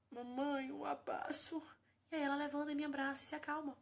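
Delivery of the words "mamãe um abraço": a lightly voiced toddler asking for a hug; higher, small child's plea, lightly played; little child voice. Daughter asking mom for a hug, lightly voiced child. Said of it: "ela olha pra mim e faz".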